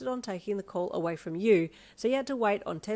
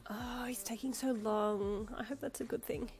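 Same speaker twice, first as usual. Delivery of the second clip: anxious; 4 semitones higher, 5 dB quieter than usual. A narrator's reading. Anxious waiting thought.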